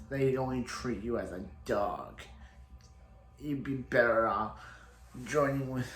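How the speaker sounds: hint of a country-guy impression; Snart's country drawl. Snart warning Mick about the legends, light country-guy impression. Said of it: "He talks like this".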